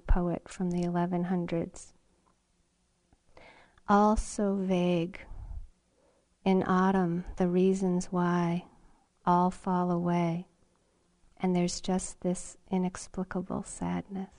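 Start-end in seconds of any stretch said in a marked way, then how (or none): 3.9-14.3 poem reading. Acted. Reads a poem by Saigyo.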